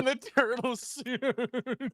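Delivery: slow laughing delivery. Real, not acted. Cracking up finishing the friend's joke, slow and laughing. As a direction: drag it out slowly through laughter. Laughing punchline about the costume.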